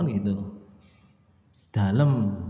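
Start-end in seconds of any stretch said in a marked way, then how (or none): 1.7-2.3 polite humble reply. Shown as a demonstration. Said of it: "kalau orang kalau manggil".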